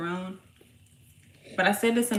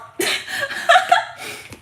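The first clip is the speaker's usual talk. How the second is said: high burst of laughter; laughing; 8 dB louder than usual. Real, not acted. Laughing at her own story, high burst of laughter. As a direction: crack up at your own brag.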